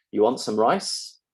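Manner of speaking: rising question tune; British question. Shown as a demonstration. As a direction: let RICE rise up at the end. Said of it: "this sentence is in fact identical in standard British".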